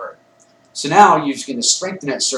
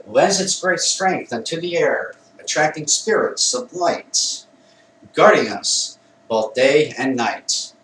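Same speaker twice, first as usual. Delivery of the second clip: emphatic incantation. Shown as a demonstration. Charging the circle with air, emphatic incantation. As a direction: drive each rhymed line home with emphasis. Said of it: "I say it with emphasis".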